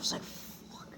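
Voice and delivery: breathless whispered curse; a scared kid cursing under his breath; whispered to self. Retold or imitated. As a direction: mutter it under your breath in dread. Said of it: "I was just saying to myself".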